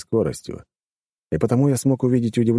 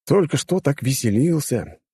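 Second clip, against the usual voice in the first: smirking taunt; 7 semitones higher than usual. A narrator's reading. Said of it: "ухмыльнулся я".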